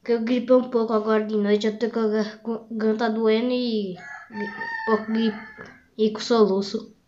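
hiccups with a sore throat; talking through hiccups; hiccuping. Real, not acted. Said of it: "tá tendo esse barulho aqui".

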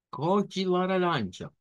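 "Cor de laranja" slow and careful, ko-ji la-RAN-ja; Portuguese pronunciation. Shown as a demonstration. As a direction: repeat slowly for students. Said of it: "repitan conmigo". ("Cor de laranja" lento y claro)

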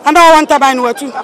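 scornful laugh through fast words; laughing scornfully. Real, not acted. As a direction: laugh at the absurd idea, quickly. Mocking remark with laugh.

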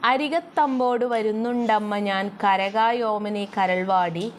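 slow, measured reading of the verse; slow lilting poem recital; poem recitation. Shown as a demonstration. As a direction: chant the line slowly like a recited poem.

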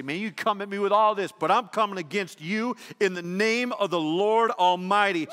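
a preacher's defiant shout at the giant; bold declaration. Acted. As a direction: declare it loud and high, with full conviction. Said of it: "Man, you say".

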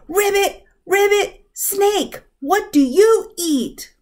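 high-pitched, excited little frog voice; loud frog shout. A narrator's reading. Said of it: "and shouted".

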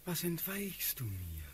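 soft-edged, yearning dream voice; dreamy longing. Acted. Sleepwalking Prince to retreating Natalie, dreamy and longing. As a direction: reach after the beloved as if in sleep.

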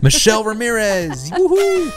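bright, high, excited announcement. Shown as a demonstration. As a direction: announce it with a big cheer. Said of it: "That sounds much better".

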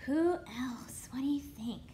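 unvoiced, secretive whisper.

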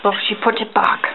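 low-key mock-Australian narrator; bad Australian accent. Wildlife host wrapping up filming, bad Australian accent. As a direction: wind down in badly faked Australian. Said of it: "Your Australian accent is horrible".

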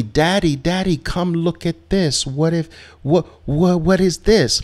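mock the trader running to daddy; trader as scared child. Worried trader acting like a child to coach, high mock plea. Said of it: "he wants to bring me".

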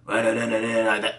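gritty raspy singing demo. Shown as a demonstration. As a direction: rasp it out like a rock singer. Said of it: "A raspy voice is kinda like".

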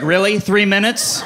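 put-on incredulous complaint; indignant mom. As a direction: imitate a mom scolding slow helpers. Mom scolds slow response.

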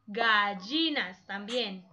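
"gallinas" stretched slowly over its syllables; slow teacher's demo of "gallinas". Shown as a demonstration. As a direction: draw out gallinas for learners. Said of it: "las sílabas es el golpecito de voz".

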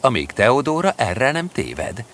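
a lightly voiced Ludovic plotting to himself, unhurried; Ludovic's scheming aside. Ludovic waits for Teodóra.

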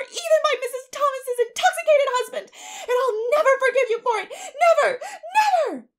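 high, tearful shouting, building to screams; wounded child screaming back; furious tirade. A narrator's reading. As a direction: rage at her until the last words shriek. Child's enraged tirade at neighbor.

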